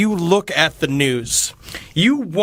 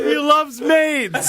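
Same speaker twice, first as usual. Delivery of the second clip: dopey cartoon bellow; 8 semitones higher, much slower than usual.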